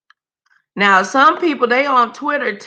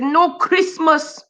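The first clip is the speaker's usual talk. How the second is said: lightly voiced Slavic-accented lady, slow; a hint of a slow, haughty first lady; Melania impression; 5 semitones higher, much slower than usual. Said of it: "She said".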